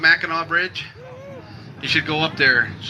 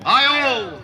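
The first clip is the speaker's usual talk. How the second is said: high-pitched answering holler; high retold chant response; crowd hollering back; 9 semitones higher than usual. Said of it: "the whole crowd hollers out".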